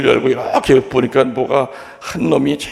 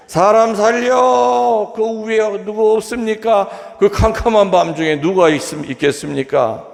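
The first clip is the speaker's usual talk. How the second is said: cry for help; 8 semitones higher than usual. Retold or imitated. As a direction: call out into the dark night, desperate. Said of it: "소리 질렀을까요?".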